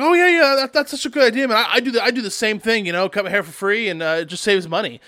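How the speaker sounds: high, eager bragging friend, lightly voiced; a light impression of a bragging buddy; mock bragging. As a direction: brag like you're just as tough. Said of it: "he's basically smack talking me".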